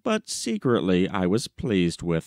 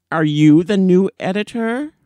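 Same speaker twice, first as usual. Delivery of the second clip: put-on stern old gentleman; 9 semitones higher, 7 dB louder than usual. Old man questions new editor.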